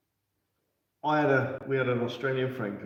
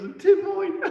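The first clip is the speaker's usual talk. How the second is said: quoting the Aussie; 8 dB louder, slower than usual. Retold or imitated. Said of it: "comes up there and goes".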